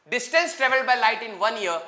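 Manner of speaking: very slow and even, for notes; slow dictation. Shown as a demonstration. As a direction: spell it out slowly for the class. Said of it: "बहुत धीरे धीरे बोल रहा हूं". (धीरे धीरे लिखवाना)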